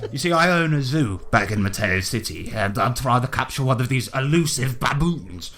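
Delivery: hearty, swearing colonial gent greeting the party; a lightly voiced jolly British explorer; bluff British adventurer. Willie greets the newcomers, a lightly voiced hearty British gent. Willie explains his zoo.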